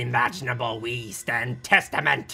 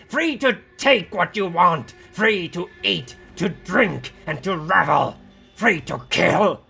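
high, loud, rousing proclamation; impassioned rant; 8 semitones higher, 6 dB louder than usual. A narrator's reading. One voice urging Raya to join and be free, impassioned rant. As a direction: proclaim each freedom with rising zeal.

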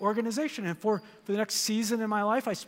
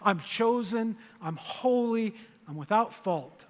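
affirmation; slower than usual. Shown as a demonstration. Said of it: "say those things to yourself".

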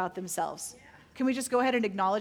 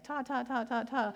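soft, repeated "ta, ta, ta"; repeated "ta" syllables; 5 dB quieter than usual. Retold or imitated. Pastor mimics praying with one syllable, repeated softly. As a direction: mimic a tiny tongues chant. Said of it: "walking around going".

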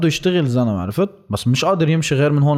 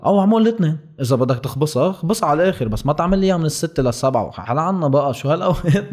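exasperated rant; 5 semitones higher than usual. Real, not acted. Ranting at authorities' absurd rules.

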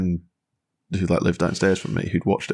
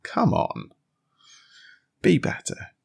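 high, breathy mock plea; playful high voice urging be better; mock exhortation; 10 semitones higher, slower than usual. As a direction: chide them up to a higher standard. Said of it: "I want someone to be the one who's like".

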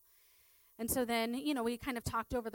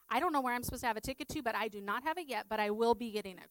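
bright, quick, louder reassurance; cheerful humouring; 2 semitones higher, 5 dB louder, faster than usual. Retold or imitated. Humouring Carl with dementia about his ticket, quick and cheerful. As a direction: rattle it off brightly to humour him.

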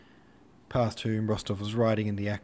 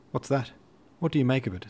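raised, louder alarmed asking; alarmed question; 5 semitones higher, 5 dB louder, faster than usual. Acted. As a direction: demand an answer in the dark.

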